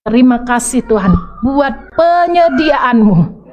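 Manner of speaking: slow, thankful prayer voice; grateful slow prayer. Retold or imitated. The preacher voicing his new daily prayer, slow and thankful. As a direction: thank God calmly, word by word. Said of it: "setiap hari kami berdoanya apa".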